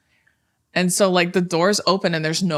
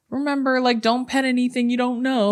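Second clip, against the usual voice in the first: raised, playful ride-host warning; cast member voice; 6 semitones higher than usual. Retold or imitated. Retelling the ride host's spiel, light cast voice. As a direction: play the in-character ride host.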